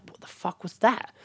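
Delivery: high, slow startled voice; mock startled. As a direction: react to a weird voice. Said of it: "I was like".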